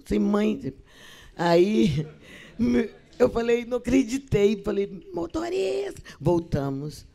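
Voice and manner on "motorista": calling out. Real, not acted. Calling the driver back.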